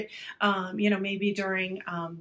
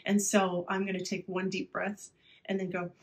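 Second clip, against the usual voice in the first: calmer now. Shown as a demonstration. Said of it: "then say".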